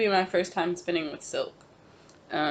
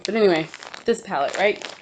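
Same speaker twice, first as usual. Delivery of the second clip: out of breath; 2 semitones higher than usual. Real, not acted. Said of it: "Excuse me, I'm out of breath".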